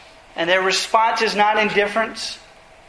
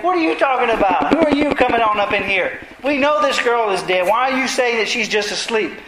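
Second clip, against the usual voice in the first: higher-pitched mock disbelief; incredulous, mildly hammed-up scoffing; scoffing crowd; 4 semitones higher than usual. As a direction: challenge him like a doubting onlooker. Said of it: "everyone laughs at him".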